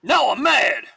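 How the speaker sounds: high, loud furious cry; yelling in a fury; angry outburst. Acted. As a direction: explode with rage. Fight breaks out, angry outburst.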